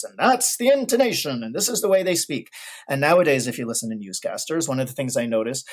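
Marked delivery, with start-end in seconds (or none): 0.2-2.5 higher, intoning 1930s radio announcer voice; old radio broadcaster voice. Shown as a demonstration. Pianist showing podcast hosts how old radio announcers sounded, higher, intoning. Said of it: "that's the broadcaster voice".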